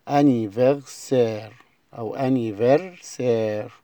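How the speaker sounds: anniversaire drawn out very slowly, a-ni-ver-SAIR; slow syllable model. Shown as a demonstration. Teacher stretches anniversaire slowly for pupils. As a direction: spell anniversaire out in sound, slowly. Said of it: "الكلمة رقم سبعة".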